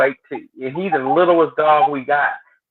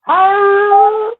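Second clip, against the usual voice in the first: squeaky, much higher happy "hi"; excited dog voice; 6 dB louder than usual. Retold or imitated. Dog greeting the car ride, squeaky and excited. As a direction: play the dog, thrilled to ride.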